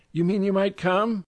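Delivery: high, gushy society lady; effusive high society lady; gushing socialite. A narrator's reading. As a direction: swoon over the marvelous man.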